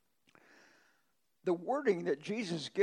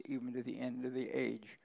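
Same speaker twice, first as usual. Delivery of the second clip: whispered ending; 3 semitones lower, 6 dB quieter than usual. Acted. Scripture reading fades out.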